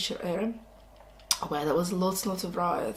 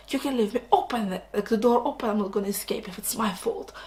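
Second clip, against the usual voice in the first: higher, louder defiant rant; a seventeen-year-old cadet defying the academy in a higher, louder tantrum; teenage tantrum; 3 semitones higher, 4 dB louder than usual. Retold or imitated. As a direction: throw a hammed-up teenage tantrum. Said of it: "He goes like".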